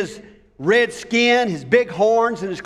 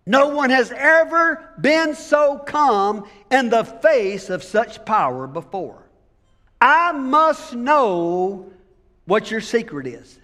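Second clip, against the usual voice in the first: puzzled devil voice. Retold or imitated. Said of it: "the devil said".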